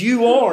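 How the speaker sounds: "You are" with You pitched high, then falling; emphatic. Shown as a demonstration. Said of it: "you see a similar word".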